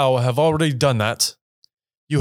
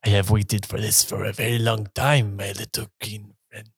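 put-on Italian accent; 4 semitones lower, 4 dB quieter than usual. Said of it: "Why is he Italian?".

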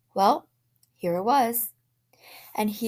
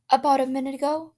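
anxious; 7 semitones higher, 5 dB louder, faster than usual. A narrator's reading. Wife frightened, insisting.

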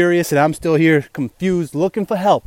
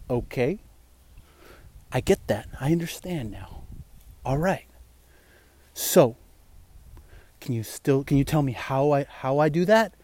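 meek confused newbie; 5 semitones lower, 10 dB quieter than usual. Retold or imitated. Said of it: "you'll see the other guy here like".

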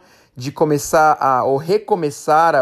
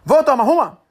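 put-on fast, slurred Cearense accent, higher and louder, "Vamos" clipped to "vom"; Ceará accent; 11 semitones higher, 3 dB louder, faster than usual. Host contrasting the friend's Cearense version, thick accent. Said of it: "ele queria dizer".

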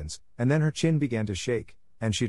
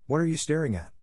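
mildly sharp, higher-pitched question; sharp demand; 7 semitones higher than usual. A narrator's reading. Miss Minchin to silent Sarah, mildly sharp demand.

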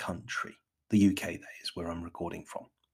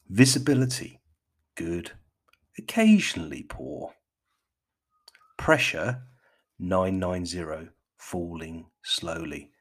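BBC forecast list, each item set apart; BBC accent; 4 dB louder than usual. Pretend. Podcaster reads visibility and pressure, mock BBC accent. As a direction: announce each heading firmly in a BBC accent. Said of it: "put on my best B B C".

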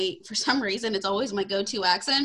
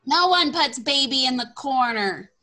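movie quote; 3 semitones higher, 5 dB louder than usual. Retold or imitated. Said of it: "quoting the movie line back".

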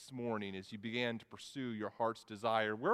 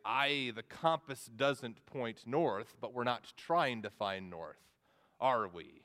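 lightly voiced slow pirate; a touch of a pirate captain; 3 semitones lower, slower than usual. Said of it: "That's my pirate voice".

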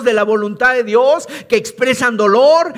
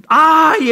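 a short ay, pitched higher and louder; mock anguished cry; 5 semitones higher, 4 dB louder than usual. Preacher voicing Cain's cry at his punishment, mock anguished. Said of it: "Él grita".

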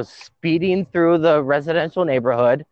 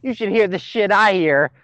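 mock bored dispatcher, higher; 4 semitones higher than usual. Retelling a 911 call, mock dispatcher telling him to calm down. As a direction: imitate a dispatcher brushing him off. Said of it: "She's like".

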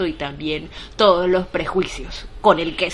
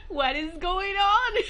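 spanglish; 9 semitones higher, slower than usual. Retold or imitated. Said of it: "Perdón mi Spanglish cuando estoy muy emocionada".

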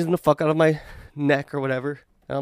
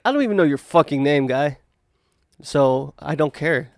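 a touch of irritation, slower at the end; getting pissed off. Retold or imitated. Retelling the bar guy confrontation, mildly angry. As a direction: firmer second go, annoyed now. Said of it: "That's when I started getting pissed off".

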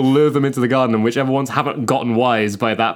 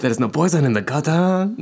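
robot spider lure; 3 semitones higher than usual. Pretend.

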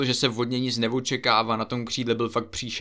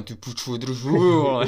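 retold exasperation; 3 dB louder, much slower than usual. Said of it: "A já říkám".

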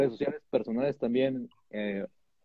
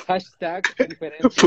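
hammed-up influencer; 5 semitones higher, 6 dB louder, slower than usual. Parody influencer hashtag.

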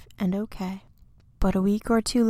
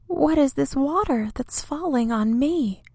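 frightened cry; 5 semitones higher than usual. Acted. Little tree crying out to big tree in the rain, panicked. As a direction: gasp it out scared. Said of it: "he cried".

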